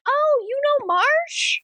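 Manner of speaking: high, drawn-out amazed question; mock delighted surprise. General learning of a shared acquaintance, delighted surprise. General suddenly impressed on hearing name.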